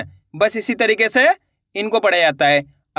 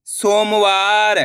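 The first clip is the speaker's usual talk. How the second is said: slow spelling; much slower than usual. Shown as a demonstration. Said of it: "अपन एक एक करके शब्दों को पढ़ेंगे".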